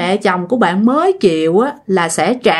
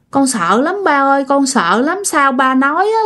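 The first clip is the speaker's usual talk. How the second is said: lightly imitated scared child, raised pitch; frightened child; 4 semitones higher than usual. Son tells his father he is afraid, mildly acted fear. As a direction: plead mildly like a worried little boy. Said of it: "mà cái mặt nó sợ lắm".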